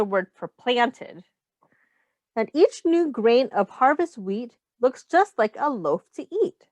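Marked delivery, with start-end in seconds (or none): 2.3-6.7 put-on reading to children. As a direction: read the rhyme aloud to the class. Reads picture book to children.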